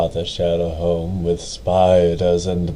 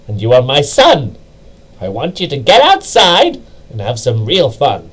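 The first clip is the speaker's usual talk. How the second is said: louder, firm mother winding down; mother scolding; 4 semitones higher, 5 dB louder than usual. Acted. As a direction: still stern but easing off. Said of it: "Her anger now spent".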